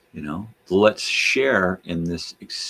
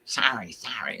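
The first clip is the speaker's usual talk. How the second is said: mock sorry; 4 semitones higher, 4 dB quieter than usual. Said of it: "as they yell sorry".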